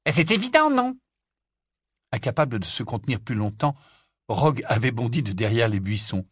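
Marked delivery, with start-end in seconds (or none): 0.1-1.0 put-on higher, louder eager boy's voice; boy blurting out. Boy jumps out to answer the girls, eager. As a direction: burst out from the bushes.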